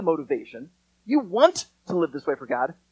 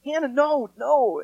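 put-on louder and higher, a quick "no, no" to the child; sharp scolding; 6 semitones higher, 8 dB louder, slower than usual. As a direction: stop the child mid-scribble. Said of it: "Leanne immediately is like".

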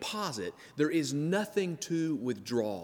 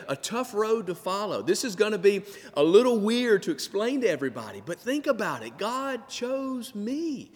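higher, awed and wondering; lightly voiced Mary; 5 semitones higher than usual. Preacher voicing Mary amazed that God chose her. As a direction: marvel that God chose you, lifting the pitch.

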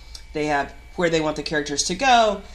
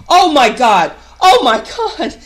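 higher, louder giddy squeal; freaking out; 8 semitones higher, 10 dB louder, slower than usual. Retold or imitated. Reading Bob's name in the script, starstruck squeal. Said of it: "I was just like".

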